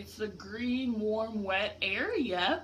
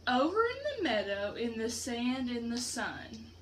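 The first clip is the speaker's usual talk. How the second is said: lilting sing-song picture book read; reading to children. A narrator's reading. Teacher reading a rhyme book to her class, sing-song. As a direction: read it like a rhyme to little ones.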